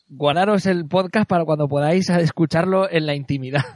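talking through laughter; giggling while speaking; laughing. Real, not acted. Host joking, laughs.

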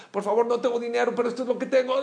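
ruego agudo imitando a una madre desesperada; gritos de súplica. Retold or imitated. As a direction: suplica con la voz muy alta de tono, atropellándote. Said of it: "le empezó a gritar al boticario". (súplica desesperada)

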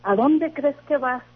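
drawn-out mock scolding, rising in pitch; retold scolding. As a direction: imitate grandmother's reprimand, stretching the words out slowly. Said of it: "me gritó, me dijo".

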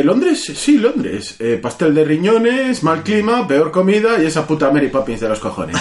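lightly voiced scornful New Yorker; New York character. Friend quotes the New Yorker complaining about London, mock scorn. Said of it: "el que dice".

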